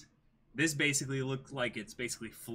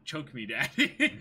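laughing while reading; 5 dB louder, slower than usual. Real, not acted. Reading moderator term aloud.

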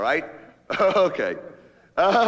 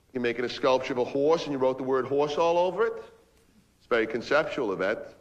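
bored. Acted. Man humouring artist girlfriend about the sculpture, bored. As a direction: feign interest with little energy. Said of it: "What do you mean I sound bored?".

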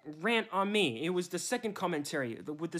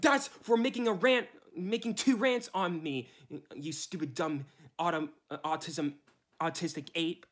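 angry insult. Real, not acted. Insulting the critic angrily.

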